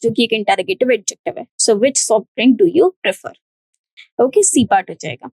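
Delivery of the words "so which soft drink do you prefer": slow read with weight on which; which stressed. Shown as a demonstration. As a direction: read the question, leaning on which. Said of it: "best suitable word हो जाता है which". (which पर ज़ोर देकर धीमे पढ़ें)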